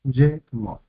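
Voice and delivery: "ye", pause, then "mot"; two separate beats on "ye, mot"; split into syllables. Shown as a demonstration. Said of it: "dos sílabas".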